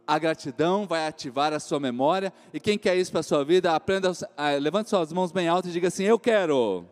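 loud rallying preaching call. Acted. Pastor urging the congregation to raise hands, preaching loud.

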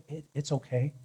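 soft, hesitant comforting murmur; loving. Pretend. Husband pretending to console his hurt wife, softly loving. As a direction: imitate a tender, soothing husband. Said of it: "Do I lovingly put my arms around her".

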